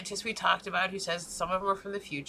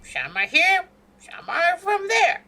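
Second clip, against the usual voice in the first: mock official announcement; 6 semitones higher, 6 dB louder, slower than usual. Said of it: "and it's like".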